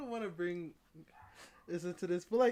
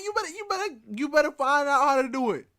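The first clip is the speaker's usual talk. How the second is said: high and loud scolding; teacher ordering a student to cope; stern teacher; 4 semitones higher, 7 dB louder, faster than usual. Pretend. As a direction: lay down the law like a strict teacher.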